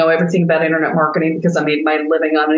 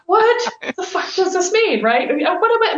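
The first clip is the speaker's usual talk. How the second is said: mock whining; 11 semitones higher than usual. Coach complaining to her patient friend, mock exasperated whine. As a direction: whine it out in a hammed-up high pitch. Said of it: "I go back to whining at Melody".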